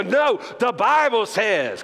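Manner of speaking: firm refusal. Shown as a demonstration. Answering when you're tempted to sin, firm and slow. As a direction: shut temptation down, drawing the words out. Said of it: "when you're tempted to sin, just go".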